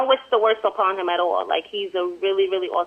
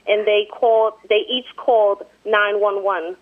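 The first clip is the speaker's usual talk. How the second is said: measured, even article reading; amateur newsreader delivery; news report read aloud; 4 dB louder than usual. Real, not acted.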